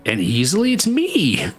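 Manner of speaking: hammed-up entitled whine, voice leaping up; smug chump. Podcaster mocking a chump who wants his problems gone, hammed-up whiny voice. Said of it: "some chump who says".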